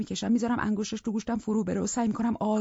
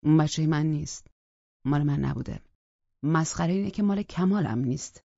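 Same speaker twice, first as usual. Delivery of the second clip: a hint of a lower, heavier man's voice; a man denying the child, lightly voiced; Scott, lightly voiced; 3 semitones lower, 4 dB louder than usual. Scott's voice in the story.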